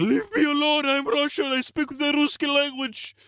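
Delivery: very high, shrill, panicked, frantic outburst. Retelling how Arvo reacts when offered a drink: imitating Arvo freaking out. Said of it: "he just, like, freaks out".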